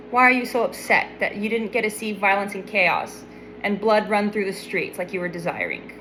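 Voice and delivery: hushed and patient, like a therapy session; soft therapist voice. Pretend. Speaker playing therapist to Jonah, soft and coaxing.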